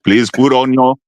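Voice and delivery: lightly voiced pilot announcement; low, hesitant captain on the intercom.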